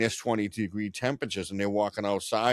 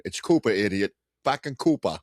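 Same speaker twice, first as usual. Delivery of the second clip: mock Maine accent. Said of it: "everywhere they go".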